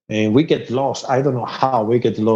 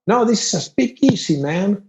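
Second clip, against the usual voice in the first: cocky redneck; 7 semitones higher than usual. Retold or imitated. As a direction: brag like a backwoods partier. Redneck quoted at the party.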